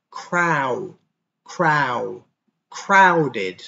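"Crow" split off, then whole "crowded"; syllable drill. Shown as a demonstration. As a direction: break "crowded" into parts. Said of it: "The O W sound is an ow".

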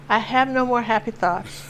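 little granddaughter's Southern drawl, imitated. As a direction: mope lightly in a toddler's borrowed Southern accent. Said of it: "picked up a Southern accent".

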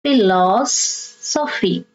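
Philosophy slowly, split as Philo-sophy, stress on LOS; third-last syllable stressed. Shown as a demonstration. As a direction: draw out phi-LOS, then finish Philosophy after a small break. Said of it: "you stress the third syllable from the".

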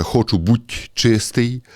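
Jesus's words, slow and measured; slow solemn quote. Acted. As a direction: let each word land, solemnly. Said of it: "каже".

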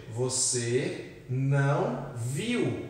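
"você não viu" stretched out very slowly; slow emphasis. Shown as a demonstration. Teacher stressing "você não viu" for the class, very slow. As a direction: linger on each word of "você não viu". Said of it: "aqui é o ver no passado".

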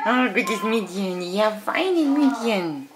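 high, slow praise; dog praise voice. Real, not acted. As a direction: draw out the praise.

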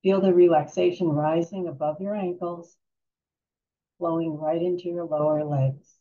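calm guided-relaxation voice with long pauses; unhurried, soothing meditation guide. Real, not acted.

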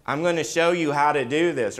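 preacher lightly voicing Jesus. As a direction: lift the voice to speak as Jesus. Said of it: "He wasn't just saying".

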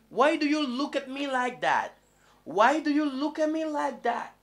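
teacher hamming up a puzzled asker; mock puzzled question. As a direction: play someone unsettled by a stare. Acting puzzled at a stare.

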